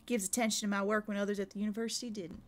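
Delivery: lightly voiced accent of Dylvana, quick; a hint of her accent, rattled off fast; quoting the scholar in her accent, lightly done; Dylvana's accent. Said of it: "I'm gonna do this in her accent".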